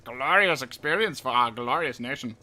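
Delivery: loud, grandiose propaganda voice; ranting dictator speech. Pretend. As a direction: proclaim it like a tyrant. Mock propaganda address.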